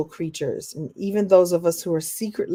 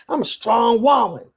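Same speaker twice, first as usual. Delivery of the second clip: proud declaration, gently mocked; mock strong woman; 2 semitones higher, 3 dB louder than usual. Speaker mocks women who insist on independence, proud. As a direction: puff up and lightly mock the boast. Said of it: "Women like that always talk like that".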